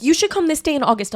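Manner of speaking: high, bossy mom voice; a mother pinning you down; mom impression. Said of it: "my mom always tries to".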